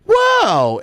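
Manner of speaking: high, loud mocking impression; squeaky fake-surprised mockery; mock G-Man. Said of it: "he'll be like".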